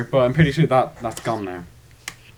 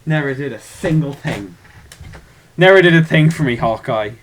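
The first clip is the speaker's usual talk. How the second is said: mock lament; 6 dB louder than usual. Mock lament over Hawkeye.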